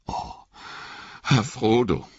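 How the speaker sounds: high, hurt, shivering reproach; a wet hobbit stung by his master; Sam, cold and soaked, reproaching Frodo in a high voice. Acted. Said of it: "sagte Sam vor Kälte bibbernd".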